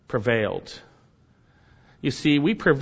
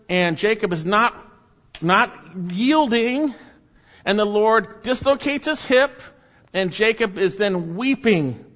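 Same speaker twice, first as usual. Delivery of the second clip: fervent build; 7 semitones higher than usual. Real, not acted. Scene: preacher describing God wrestling Jacob, fervent and raised. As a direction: preach it with rising passion.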